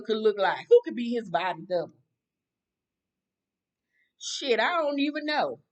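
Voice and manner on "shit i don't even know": laughing out the name, louder; giggling at her own joke. Real, not acted. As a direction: crack up as you say it.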